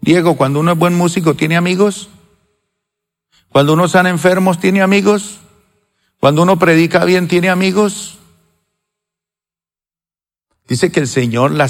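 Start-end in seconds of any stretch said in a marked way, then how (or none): 0.0-8.2 preaching rhetorical questions. Acted.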